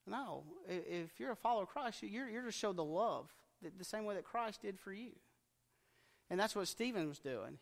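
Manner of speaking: usual speaking voice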